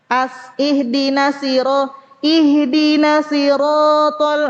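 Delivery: "ihdinas sirotol" with a short single s; missing tasydid. Shown as a demonstration. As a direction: recite "ihdinas sirotol" without doubling the s. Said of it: "itu tasydidnya hilang". ("ihdinas sirotol" dengan tasydid hilang)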